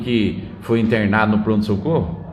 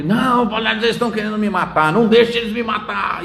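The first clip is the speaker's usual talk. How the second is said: put-on higher, frantic drunk begging; imitating the panicky plea, a little higher; panicked pleading; 8 semitones higher than usual. Drunk patient pleading with his friend against the doctors, panicky. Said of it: "E gritava".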